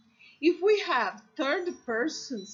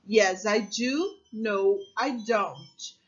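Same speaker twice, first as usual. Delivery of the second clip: slow model answer; 2 semitones lower, slower than usual. Shown as a demonstration. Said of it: "the short answer".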